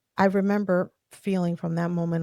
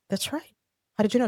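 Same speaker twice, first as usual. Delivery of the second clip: surprised; 6 semitones higher, faster than usual. Retold or imitated. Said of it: "And I said".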